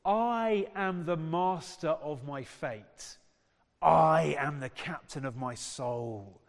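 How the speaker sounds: slow, weighty declamation; stirring poem recital. Acted. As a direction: declaim each line slowly as a proud creed. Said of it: "Sort of stirring, isn't it?".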